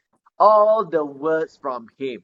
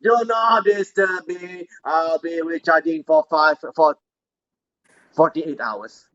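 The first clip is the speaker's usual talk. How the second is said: stiff, even robot voice. Acted. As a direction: talk like a tired robot. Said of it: "my robot".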